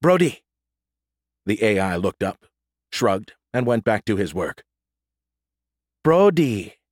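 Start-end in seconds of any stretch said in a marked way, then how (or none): 0.0-0.4 calling out. A narrator's reading. Calling the android firmly. 6.0-6.8 slow. A narrator's reading. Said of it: "she repeated slowly".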